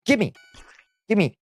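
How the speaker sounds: put-on high, childlike begging; whiny gimme. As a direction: beg like a greedy kid. Demanding waffles playfully.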